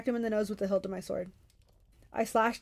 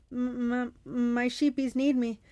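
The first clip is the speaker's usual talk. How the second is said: pleading with a stammer, higher; pitiful pleading; 3 semitones higher than usual. Acted. Defeated Cyclops begging Percy to spare him, pitiful. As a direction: beg for mercy with a catch. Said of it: "He began to sob".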